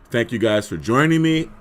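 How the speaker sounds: hoarse, frog in the throat. Real, not acted. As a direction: talk through a hoarse throat. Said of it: "I still have a hoarse voice".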